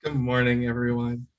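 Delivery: low, distorted robot voice; glitchy mic filter sounding robotic. Real, not acted. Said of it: "I should not have a robot voice on".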